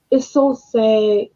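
sigh, then a soft, slow, heavy "so sad"; fighting tears. Real, not acted. Grieving vlogger holding back tears over a death, sad. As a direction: let the breath out and hold back the tears. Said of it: "I'm trying not to cry no more".

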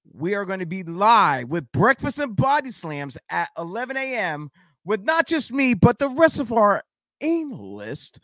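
upbeat host wrapping up the show; podcast host outro. Acted. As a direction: sign off like a radio host.

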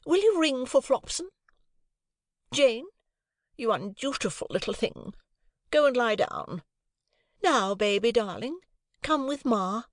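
high, imperious then cooing; haughty mother. A narrator's reading. Missus Pocket ordering Jane then cooing to baby, high. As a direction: command the room, then coo at baby.

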